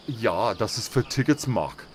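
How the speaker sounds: Ja, das ist für tickets Mach in a hammed-up German accent, R's rolled; mock German accent. Shown as a demonstration. Gamer mocking the German stat names in a German accent. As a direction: play a stiff German speaker saying für tickets Mach. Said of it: "where they roll their R's".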